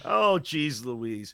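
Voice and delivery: very slow mock groan; drawn-out exasperation. Real, not acted. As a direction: stretch it out in weary disbelief. Exasperated aside.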